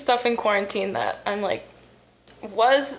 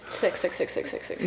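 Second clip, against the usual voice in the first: whispered count; 4 semitones lower, 7 dB quieter than usual. Real, not acted. Counting down quietly.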